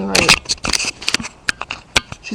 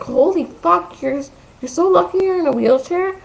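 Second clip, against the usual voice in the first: high-pitched mocking whine; whiny friend; 10 semitones higher than usual. Friend threatening the speaker in a quarrel, mock whine. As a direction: imitate an angry friend whining, pitched right up. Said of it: "in that fucking whiny voice".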